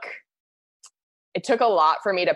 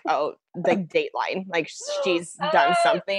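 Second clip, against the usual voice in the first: mock Dateline drama. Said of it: "all I knew how to do was be like".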